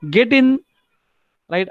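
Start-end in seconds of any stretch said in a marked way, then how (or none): 0.1-0.6 higher-pitched urging call; urging command. Acted. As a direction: urge them aboard. Acting out a boarding command.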